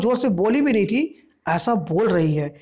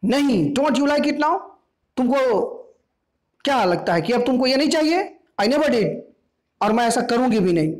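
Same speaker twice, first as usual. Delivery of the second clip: raised, defiant retort; shouting back; 4 semitones higher than usual. Acted. Mother shouting back at daughter, refusing. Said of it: "वो भी उससे दुगना चिल्ला के बोली".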